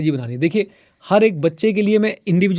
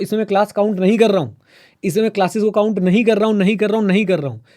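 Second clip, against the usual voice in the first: "नहीं कर रहा हूँ" repeated emphatically, pitched up; insistent repetition; 3 semitones higher, faster than usual. Real, not acted. Teacher telling students classes do not count, insistent "नहीं कर रहा हूँ".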